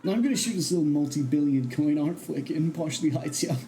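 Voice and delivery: lightly voiced vain movie star; Zip Toad. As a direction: boast lazily, drawing out the last complaint.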